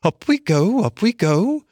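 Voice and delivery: high little mole voice, muttering. A narrator's reading. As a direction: grunt it out while digging. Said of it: "muttering to himself".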